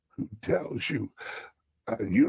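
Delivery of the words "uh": ordinary talk, nothing marked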